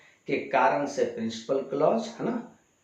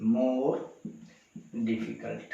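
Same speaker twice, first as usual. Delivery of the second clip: slow dictation; 3 semitones lower, 7 dB quieter, much slower than usual. Shown as a demonstration. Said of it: "teacher dictates comparative form".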